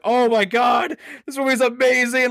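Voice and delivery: over-the-moon cry of joy; excited shout. Retold or imitated. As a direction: yell it like the movie blew you away.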